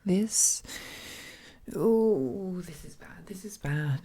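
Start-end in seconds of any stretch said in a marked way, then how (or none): 2.6-3.3 panicked whisper. Acted. 3.3-4.0 panicked whisper. Acted.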